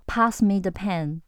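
slow, flat command; curt failing request; blunt order. Shown as a demonstration. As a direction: bark it as an order. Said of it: "不行".

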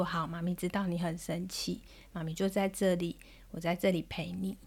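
soft, low, comforting mother's voice; gentle soothing. Retold or imitated. Mum holding her angry daughter, soft and soothing. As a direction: quietly reassure an upset child.

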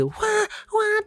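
very high, slow wows, voice changed; amazed wow. Retold or imitated. First time snorkeling, a high, slow amazed wow. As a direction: gasp in wonder at the reef.

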